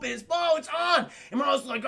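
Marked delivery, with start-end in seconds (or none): 0.3-1.1 high, loud triumphant cry; mock excited shout. Luigi gets the car started, loud mock triumph. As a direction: shout it, hammed-up and raring to go.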